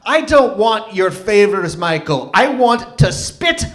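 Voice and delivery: put-on Irish accent building from measured disbelief to a high, loud, drawn-out tirade; mock Irish accent, slowing and swelling into fury; butchered Irish accent. Offended ex scolds Michael over the phone, badly imitated Irish accent building to rage. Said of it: "I'm gonna butcher her accent".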